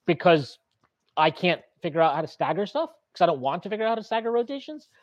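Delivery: mock the coach's excuse, rising into questions; mildly mocking, lilting up at the end.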